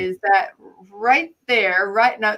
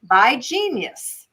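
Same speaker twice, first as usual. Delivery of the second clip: slow reading; 3 semitones higher, 3 dB louder, much slower than usual. Shown as a demonstration. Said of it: "I'm gonna go very slow here".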